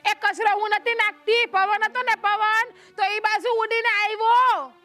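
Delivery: slowing down to spell it out; deliberately spelling it out slowly for the deaf neighbour. Acted. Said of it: "તો લે, હું જોરથી બોલ". (ચીડવવા ધીમે ધીમે ભાર દઈને બોલવું)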